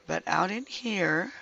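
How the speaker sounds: hoarse, strained croak; croaky sore throat. Real, not acted. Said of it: "I'm sorry about my croaky throat".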